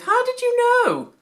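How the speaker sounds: high, loud cry of relief; relieved cry. A narrator's reading. Joseph answers the priest with a relieved cry. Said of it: "cried Joseph".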